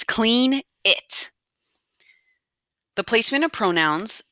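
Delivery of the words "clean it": lightly voiced mom's order, pitched up; mom giving a command. Mom avoiding repeating herself, lightly acted command. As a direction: give a short order, a bit higher. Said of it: "She tells you in a command".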